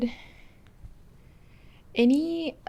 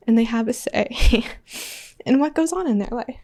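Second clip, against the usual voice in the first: crying; 4 semitones higher, 3 dB louder than usual. Real, not acted. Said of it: "Sorry, I didn't think I'd cry".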